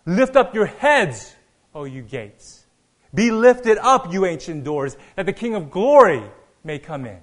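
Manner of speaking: crying out. Retold or imitated. David calling to the gates of Jerusalem, crying out. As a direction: imitate a loud call, punching the key words. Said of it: "he cried out in a loud voice".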